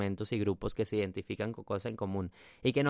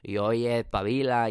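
put-on Spain Spanish accent; 3 dB louder, slower than usual. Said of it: "ya estoy hablando así".

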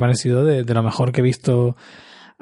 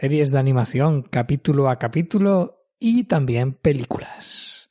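sing-song podcast welcome with pitch swinging up and down; full-on intro intonation. Real, not acted. Host welcomes listeners to the animation podcast, intoning it all out. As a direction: intone the opener to the max. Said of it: "mi manera de entonar a tope el inicio".

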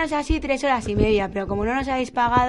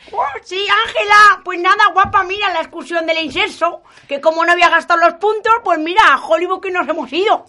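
put-on gossipy old lady; 7 semitones higher, 5 dB louder than usual. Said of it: "son Florinda y Natividad".

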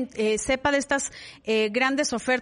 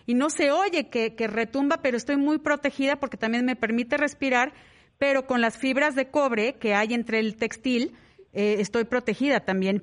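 talking with a face mask on; through a face mask. Real, not acted. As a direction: voice through a mask, not muffled. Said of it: "aquí estoy hablando, ah, con la mascarilla puesta".

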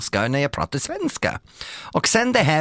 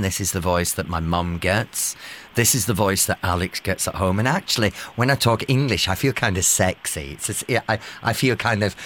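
lower, relaxed English voice; speaking English in a lower voice to show the difference; 6 semitones lower than usual. Shown as a demonstration. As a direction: settle into a grounded, calm register. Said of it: "This is what I sound like when I'm talking English".

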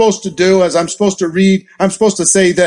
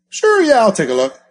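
mock friend agreeing. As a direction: chirp a bright yes. Contact agrees to take a look.

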